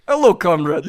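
put-on Russian accent. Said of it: "Your shitty Russian accent".

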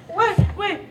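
high, loud and slow disbelief; incredulous. Real, not acted. Mocking his Instagram post.

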